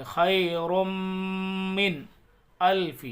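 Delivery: خیر من read with ر joined into م; merged ra into mim. Shown as a demonstration. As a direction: run خیر into من. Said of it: "را کو میم میں ملائیں گے".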